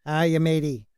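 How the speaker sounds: light mock Kiwi accent; a hint of Kiwi accent greeting. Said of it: "I don't know what that Kiwi accent was".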